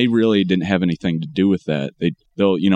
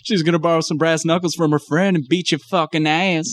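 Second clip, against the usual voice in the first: higher imitation of a Southern ghetto accent; mock Southern accent; 7 semitones higher than usual. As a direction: lightly parody her put-on Southern accent. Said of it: "she's faking a Southern accent".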